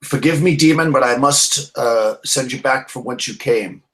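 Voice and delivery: earnest in-character proclamation; solemn battle address. Acted. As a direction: mildly declaim it to a foe before the charge. Addresses demon before charging it.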